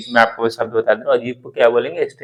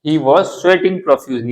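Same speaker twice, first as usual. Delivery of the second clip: slow, word-by-word model sentence; 3 semitones higher, much slower than usual. Shown as a demonstration. Teacher dictating an example sentence slowly to students. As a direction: lay each word out slowly for learners. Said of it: "तो हम लोग क्या बोलेंगे?".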